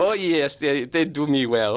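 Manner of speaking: lightly put-on German accent; hint of a hammy German accent; German detective. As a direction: play an amateur German detective on surveillance. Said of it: "I'll play the German detective".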